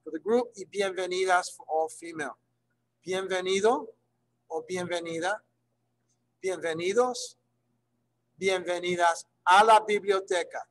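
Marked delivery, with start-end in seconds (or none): 3.1-10.6 welcoming smile. Shown as a demonstration. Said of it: "the phrase is bienvenido with a smile".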